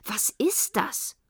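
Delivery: slow, wondering question; astonished question. A narrator's reading. Frau Philipp faces a huge golden ball, slow astonished question. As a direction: stretch the question out in amazement. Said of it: "rief Frau Philipp".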